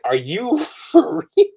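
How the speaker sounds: retold incredulous reaction; mock freak-out. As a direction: act out being thrown by the news. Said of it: "They freaking out".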